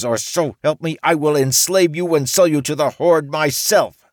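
high, loud menacing demands; T dictating terms to the samurai; threatening orc woman. A narrator's reading. T lays down terms.

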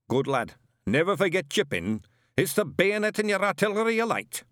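put-on high, barking old sergeant; old witchfinder sergeant. A narrator's reading. Shadwell drilling Newt through the kit list, barking. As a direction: bark out the checklist like a drill sergeant.

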